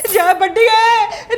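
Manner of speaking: drawn-out slow lament; keen it like a hammed-up mourner; slow mock-mourning wail over the daughter-in-law. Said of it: "ਇਹ ਤਾਂ ਰੋਈ ਜਾਂਦੇ ਨੇ".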